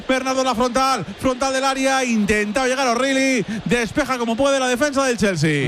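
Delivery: urgent, driving match commentary; live football play-by-play. Real, not acted. Commentator calling a Chelsea clearance to listeners, live play-by-play. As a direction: call the attack as it unfolds.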